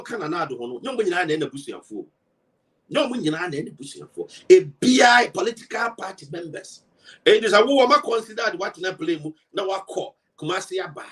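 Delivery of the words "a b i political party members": loud, rising call to the party faithful; shouted appeal to party members; shouting. Real, not acted. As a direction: belt it out as a rallying cry.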